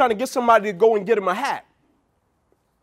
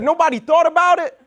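higher-pitched retold disbelief; incredulous question; 5 semitones higher than usual. Retelling his reaction to the airline's mistake, incredulous. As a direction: ask it as if astonished at them.

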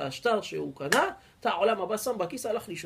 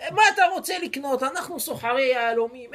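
higher and louder, laughing at him; mocking laughter; 5 semitones higher, 5 dB louder than usual. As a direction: jeer at the poor man. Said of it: "צחקו עליו".

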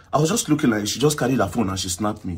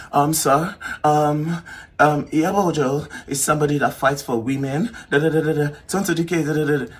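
higher-pitched mock lawyer spiel; lightly mock a lawyer's halting, rote spiel; mimicked lawyer; 4 semitones higher than usual. Opposing lawyer addressing the officer, lightly mocked in higher pitch.

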